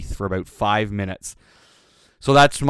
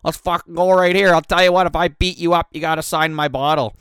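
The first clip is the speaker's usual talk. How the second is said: put-on loud, high, pumped-up drunken challenge; drunk challenge to fight; 7 semitones higher, 5 dB louder than usual. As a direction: call him out to fight, fired up. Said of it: "And I'm like".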